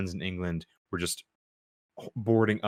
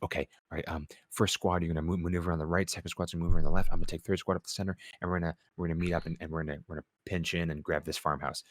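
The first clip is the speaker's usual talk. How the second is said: calm commander briefing; 3 semitones lower, 4 dB quieter, faster than usual. Retold or imitated. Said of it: "He's like".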